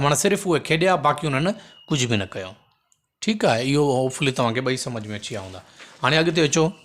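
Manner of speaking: ordinary talk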